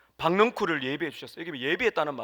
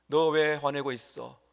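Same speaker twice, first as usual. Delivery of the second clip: gentle fatherly question; slower than usual. Acted. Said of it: "아버지가 아들의 어깨를 딱 손을 대고 하는 것처럼".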